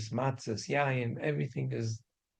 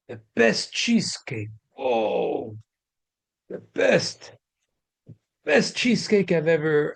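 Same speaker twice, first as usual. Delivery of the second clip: gushing, much higher and louder over the cheesecake; raving delight; 4 semitones higher, 4 dB louder, slower than usual. Retold or imitated. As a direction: swoon over the best cheesecake ever, slow and loud. Guests raving about cheesecake.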